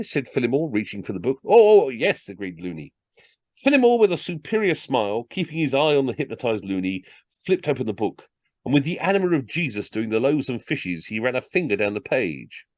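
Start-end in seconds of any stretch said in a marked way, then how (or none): 1.4-2.3 high, loud, impressed yes; pitched-up, overkeen character voice; eager agreement. Acted. Overawed customer agrees eagerly. 3.6-12.7 lively comic storytelling; story narration. A narrator's reading. Reads a comic story aloud.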